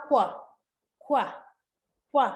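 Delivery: "ขว" as one short syllable; phonics sound. Shown as a demonstration. Teacher sounding out Q for children, short phonics sound "ขว". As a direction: say a short, isolated "ขว" for the letter Q. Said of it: "sound ขว".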